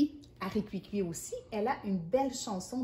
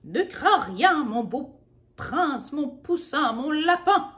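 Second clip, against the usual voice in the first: reassuring shout; 4 semitones higher, 5 dB louder than usual. A narrator's reading. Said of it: "rugit maman".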